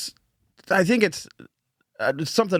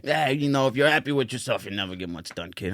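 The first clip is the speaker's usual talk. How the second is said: put-on Boston accent; 3 dB quieter than usual. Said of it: "sounds like somebody from Massachusetts".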